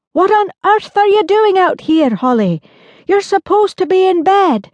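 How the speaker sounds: put-on a father catching his girl out of bed; a lightly voiced dad, mildly scolding; surprised father. Father calls down to Holly.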